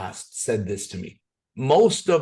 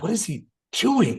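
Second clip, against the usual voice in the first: quoting Sherry; 8 semitones higher than usual. Retold or imitated. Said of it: "she was like".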